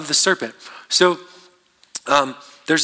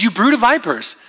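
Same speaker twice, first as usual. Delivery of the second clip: shocked rebuke; 4 semitones higher than usual. Retold or imitated. John the Baptist to the crowd seeking baptism, shocked. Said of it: "he's shocked".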